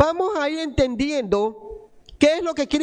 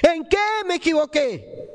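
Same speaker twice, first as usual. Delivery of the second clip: imitated yell, pitched up; retold mother's cry; 5 semitones higher than usual. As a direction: repeat a mother's anguished question, only mildly raised. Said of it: "mi madre me gritaba".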